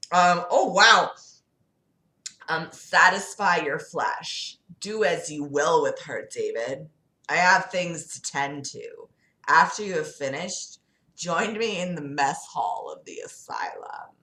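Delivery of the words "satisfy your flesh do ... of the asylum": measured devil voice, trailing into breath; a hint of sinister command; lightly voiced Lucifer. Lucifer giving David his orders, lightly sinister voice.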